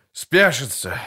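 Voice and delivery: lightly voiced hoarse officer's cry; hoarse shout. A narrator's reading. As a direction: bark it out hoarsely to the soldiers. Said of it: "хрипло крикнул он".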